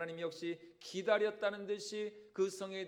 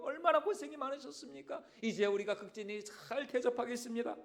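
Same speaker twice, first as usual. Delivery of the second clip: grateful townsfolk; 4 semitones higher than usual. Acted. Grateful Ninevites thank Jonah.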